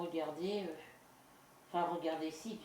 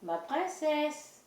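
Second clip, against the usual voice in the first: high cooing voice, much higher and louder; pet talk; 9 semitones higher, 6 dB louder, much slower than usual. Real, not acted. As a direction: coo sweetly at a little pet.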